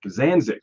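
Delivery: Zanzik said as ZAN-zick; correcting pronunciation. Shown as a demonstration. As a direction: repeat Zanzik as two plain syllables, ZAN-zick. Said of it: "you both are wrong".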